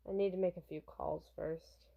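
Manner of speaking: understated, low and businesslike; stoic bodyguard. Acted. Bodyguard stalling the eager pop star, low and reserved.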